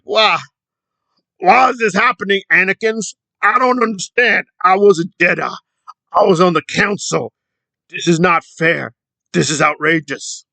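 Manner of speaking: high, indignant mock protest; Crackhead Kenny whining. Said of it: "And Kenny's like".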